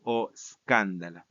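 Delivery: "escándala" recited as SKAN-da-la; stress on antepenult. Shown as a demonstration. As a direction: put the weight on KAN in "escándala". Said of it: "Regresa a la misma posición".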